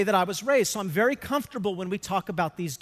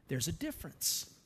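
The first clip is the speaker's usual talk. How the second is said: much softer, lower, letting "difference" land quietly; hushed; 4 semitones lower, 11 dB quieter than usual. Acted. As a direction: drop to a near hush to make the point. Hushed point after God's words.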